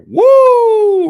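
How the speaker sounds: a loud, high hype whoop; loud hype holler; excited whoop. Real, not acted. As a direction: let it fly like the clip just blew your mind. Hyped reaction to clip.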